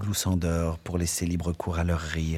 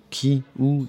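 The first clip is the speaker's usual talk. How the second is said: quick, eager questions pitched up; excited; 7 semitones higher, 4 dB louder than usual. Acted. Barmaid asking eagerly who is passing, excited. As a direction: perk up, eager to see who. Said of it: "plus excité encore".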